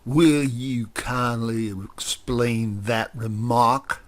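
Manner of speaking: slow, cold and cutting; icily. Acted. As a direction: demand it with icy restraint. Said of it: "said Grover icily".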